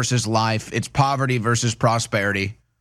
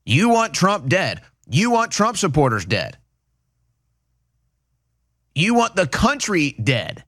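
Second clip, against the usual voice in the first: accusing; 5 semitones higher than usual. Real, not acted. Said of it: "accusing Democrats directly".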